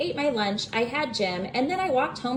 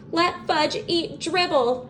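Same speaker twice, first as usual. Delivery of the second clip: screamed; 8 semitones higher, slower than usual. A narrator's reading. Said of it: "I screamed".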